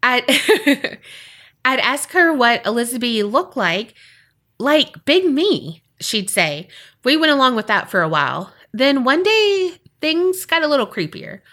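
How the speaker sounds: measured read-aloud storytelling; narrating a true ghost story; story narration. A narrator's reading. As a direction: read the listener's tale like a storyteller. Reads a listener's story aloud.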